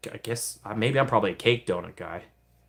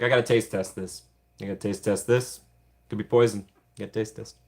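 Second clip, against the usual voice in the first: lightly voiced Randy; a hint of greedy Randy; Randy impression. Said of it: "It's my best Randy impression".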